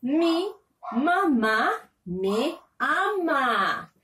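"mamá" drawn out slowly; slow dictation. Shown as a demonstration. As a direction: read it slowly for young children. Teacher reads sentence slowly.

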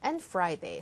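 Friday dropped softly to the end; falling tune. Shown as a demonstration. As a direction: let Friday fall gently. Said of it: "살짝 내리십니다".

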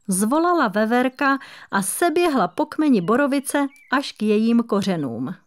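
ordinary delivery

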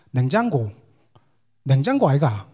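냉장고 said with Gyeongsang dialect intonation; 냉장고 아이가 in a Gyeongsang dialect lilt. Shown as a demonstration. Pastor showing the congregation how Gyeongsang people say it, Gyeongsang dialect. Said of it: "경상도 분들 냉장고 어떻게 아시죠".

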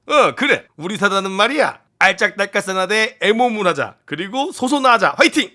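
hammed-up military slogan, building to a cheer; mocking commander. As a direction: address the troops like a gung-ho commander. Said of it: "내가 바로 유튜브 쇼츠로 조롱하지".

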